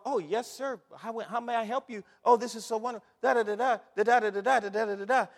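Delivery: lightly voiced fawning clerk; sugary bakery clerk. Preacher mocking bakers greeting the caller, mock sweet. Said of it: "everybody started off".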